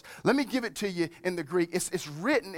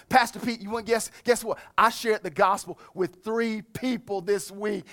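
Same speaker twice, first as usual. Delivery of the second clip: excited churchgoer; 3 semitones higher than usual. Retold or imitated. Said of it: "people came back going".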